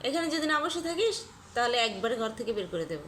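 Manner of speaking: stern warning to a runaway pet; stern threat. Real, not acted. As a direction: lay down the law to the pet.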